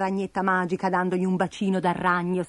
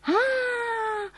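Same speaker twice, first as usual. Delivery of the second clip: high, drawn-out gasp of realization; acted eureka moment, louder on the answer; exclaiming; 12 semitones higher, 3 dB louder, much slower than usual. A narrator's reading. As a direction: burst out, pitched up, savouring it. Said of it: "esclamò Bastoncello".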